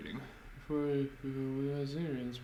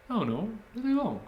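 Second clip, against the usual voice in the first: put-on high, loud teenage girl voice; a clerk brushing off questions; bored teen shop clerk; 10 semitones higher, 4 dB louder than usual.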